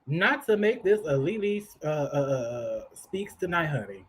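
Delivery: talking through a bite of food; chewing while talking. Real, not acted. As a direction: mouth full, words muffled. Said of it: "I'm trying to eat".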